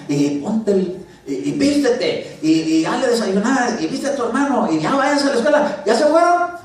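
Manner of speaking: high, loud string of orders; barking mother. Retold or imitated. Preacher imitating his mother ordering the kids off to school, high and loud. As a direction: rattle off commands like a drill sergeant mom. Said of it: "les tenía que andar hablando así".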